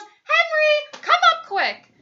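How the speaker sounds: high, urgent summons, drawn out on the name; yelling. A narrator's reading. Mummy summons her husband to the bathroom, yelling. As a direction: yell for help from upstairs. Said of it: "And she yells".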